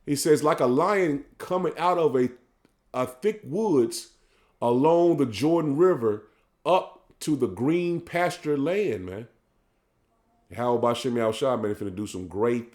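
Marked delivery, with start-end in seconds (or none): 0.4-9.0 measured, drawn-out scripture reading; solemn sermon reading; slow preaching scripture read. Acted. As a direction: lay each phrase out slowly like a preacher.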